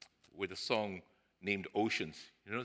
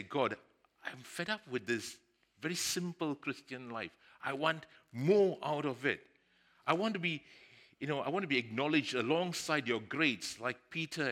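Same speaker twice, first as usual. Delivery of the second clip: louder, insistent prayer of longing; fed-up plea to God; 4 semitones higher, 5 dB louder than usual. Acted. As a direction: plead with God for more, pitch lifted.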